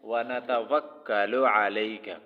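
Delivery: व नतवक्कलु अलैका each syllable clear; careful. Shown as a demonstration. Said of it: "तो क्या लफ्ज़ है?".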